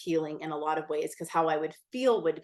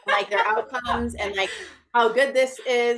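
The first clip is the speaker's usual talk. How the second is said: eager nerd pitch; 5 semitones higher, 4 dB louder than usual. Retold or imitated. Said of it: "like a freaking nerd".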